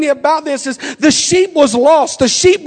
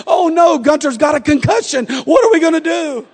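higher, half-shouted mock panic; retold panic; 4 semitones higher than usual. Wife phoning her husband in a mock panic, raised voice. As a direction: imitate a frantic wife on the phone. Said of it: "calls me in a panic".

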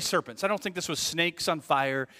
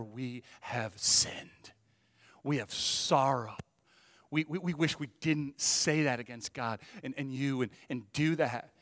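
humble confession; slower than usual. Retold or imitated. Voicing the people's humble repentance.

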